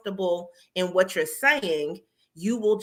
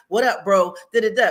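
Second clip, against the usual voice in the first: louder, casual street greeting, lightly hammed; mock the too-casual camera voice; mock casual bro greeting; 5 dB louder than usual. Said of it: "I can't just get on the camera and be like".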